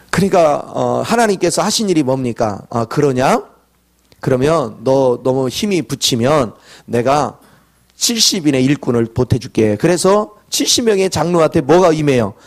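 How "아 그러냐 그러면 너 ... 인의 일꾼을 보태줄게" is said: calm reassurance. Acted. God calmly answers Moses' complaint.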